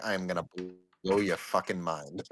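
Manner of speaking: low, soft menace; low ominous voice. Acted. Ominous promise.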